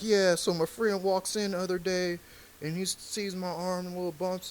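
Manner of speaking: comic nervously telling his first joke, voice up. Retold or imitated. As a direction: rush the bit out like a scared first-timer. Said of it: "I'm nervous and I'm pacing".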